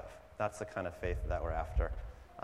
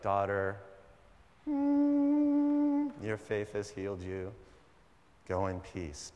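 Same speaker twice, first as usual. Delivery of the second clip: solemn film Jesus; slower than usual. Retold or imitated. Film Jesus blessing the woman, hushed and pious. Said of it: "if the Zeffirelli Jesus was saying".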